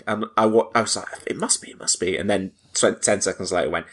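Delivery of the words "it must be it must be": soft, imitated cinema murmur; reply under your breath, as if retelling it; quietly acted-out aside; hushed reply.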